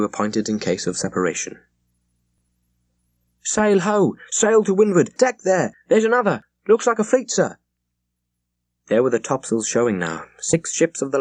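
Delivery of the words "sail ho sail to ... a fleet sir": high, loud hail from aloft; lookout calling out. Acted. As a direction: shout it down from the masthead.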